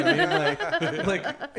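high, loud words through real laughter; laughter bursting through the words; laughing while talking. Real, not acted. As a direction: crack up while trying to explain. Laughing at own childhood joke.

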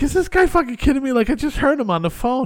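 high, loud, fast disbelief; retold incredulity. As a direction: act out outraged disbelief.

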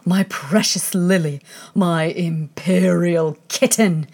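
put-on a fussing queen calling her baby; frantic queen. White Queen scrambling toward her daughter, doting cry.

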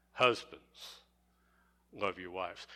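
Husbands set apart, pause, love your wives low and soft; single out Husbands and let the rest fall; stress on Husbands. Shown as a demonstration. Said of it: "That's why we emphasize".

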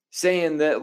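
breathy whispered aside. Retold or imitated. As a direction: drop to a whisper mid-quote. Whispered bit in quote.

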